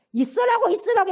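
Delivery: high, loud mock plea; mock pleading. Preacher voices believers begging Satan to stay, hammed-up high plea. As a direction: beg him to stay, hammed up.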